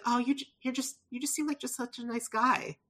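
softly cooed mock admiration; fond admiration. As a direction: gush gently, keeping it soft and high. Imagined fond reaction to actor.

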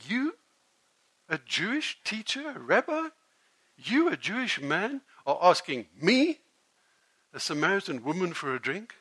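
cutting, indignant rebuke with rising questions; sharp-tongued. Acted. Samaritan woman scolding the Jewish teacher, sharp-tongued. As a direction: put the rabbi in his place. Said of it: "with a very sharp tongue".

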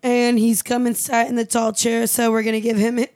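hiccuping through the words; with hiccups. Real, not acted. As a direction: talk between hiccups. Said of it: "pardon my hiccups".

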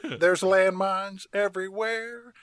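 mock-solemn old-timer on his last stand; Uncle Jesse. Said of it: "And Uncle Jesse says".

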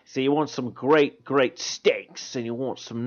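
broad Australian steakhouse ad voice; Aussie pitchman drawing out the words; Australian accent. Acted. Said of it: "a long rant from an Australian".

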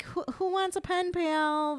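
high-pitched, drawn-out scoffing question; mock incredulous question. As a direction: stretch it out high, dismissing the whole idea. Scornful mock question about the app.

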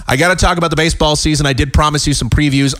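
ordinary talk

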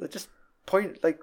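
high, mock menacing Walter; lightly hammed Walter threat; Walter threatening. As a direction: jab the words down the gun barrel. Voicing Walter pointing the gun.

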